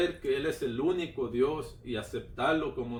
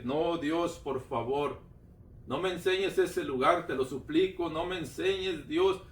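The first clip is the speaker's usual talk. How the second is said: urgent plea, slightly raised; retold fearful pleading; 2 semitones higher than usual. Man retells begging God not to show that place, pleading. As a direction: beg in a retold, understated fright. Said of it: "le empecé a clamar porque yo estaba con mucho miedo".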